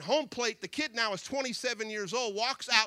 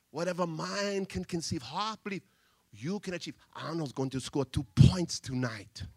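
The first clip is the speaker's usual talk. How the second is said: broken English; 5 semitones lower than usual. Retold or imitated. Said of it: "speaks broken English".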